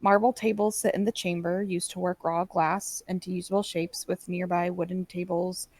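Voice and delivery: steady descriptive read-out; game master scene-setting. Acted. Game master describing glass workshop to players, narrating. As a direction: lay out the room for players.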